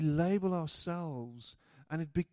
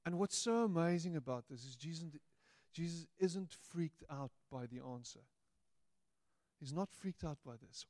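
ordinary delivery

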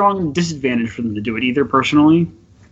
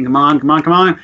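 louder, building imitation of a shout; mock shouting; 5 dB louder than usual. Host predicting his angry colleague's outburst, mock shouting. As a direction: start shouting, half in jest, rising as you repeat. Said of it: "he's gonna start shouting".

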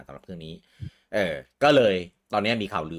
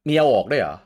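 surprised; 5 semitones higher, 8 dB louder than usual. Real, not acted. Learns icons get removed.

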